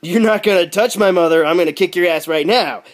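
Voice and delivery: hammed-up indignant threat; mock outrage. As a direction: play the gun nut losing it. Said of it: "gun nuts flip out".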